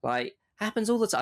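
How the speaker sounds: casual Australian shrug of a line; Australian accent. Retold or imitated. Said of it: "I went Australian there".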